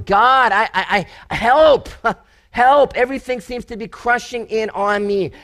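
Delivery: mock desperate cry of help; desperate plea. David pleading with God, imitated desperate cry. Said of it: "He's sitting there and going".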